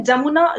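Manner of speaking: जमुना starting with a J sound; Urdu pronunciation. Shown as a demonstration. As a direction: say जमुना as Urdu speakers do, "Jamuna". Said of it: "Urdu भाषा में लोग बोलते हैं".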